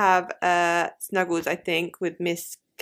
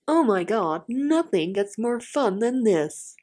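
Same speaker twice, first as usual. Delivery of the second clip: lightly put-on TV voiceover; commentator voice; 2 semitones higher, slower than usual. Shown as a demonstration. Host redoing the tone for co-host, mock commentator voice. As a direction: stretch it out like a cheesy presenter. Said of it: "is it like a commentator voice".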